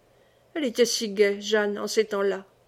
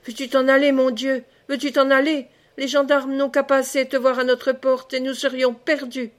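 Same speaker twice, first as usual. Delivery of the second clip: louder, raised voice driving her away from the door; fearful angry refusal; 2 semitones higher, 3 dB louder than usual. Acted. Madeleine shouting through the door at Jeanne to leave, angry and afraid. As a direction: snap at the beggar to leave, frightened of the gendarmes.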